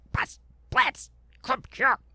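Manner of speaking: soft, quiet whispered voice. Calling a companion over after leaving the main thoroughfare: whispering. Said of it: "whispering this".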